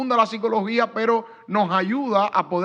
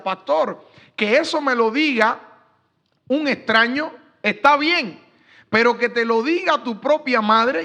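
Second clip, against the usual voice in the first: retold plea, rising higher and louder toward the end; mild imitation of a hurt girl pushing out her complaint; retold tearful plea; 4 semitones higher, 4 dB louder than usual. Young woman tells the pastor about her mother, imitated tearful rising plea. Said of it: "Y esa muchacha lloraba".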